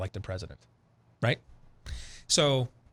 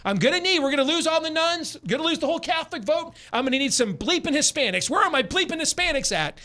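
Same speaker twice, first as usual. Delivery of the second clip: hammed-up frantic screaming, pitched way up; retold screaming; 12 semitones higher than usual. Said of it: "he just keeps repeating this over and over".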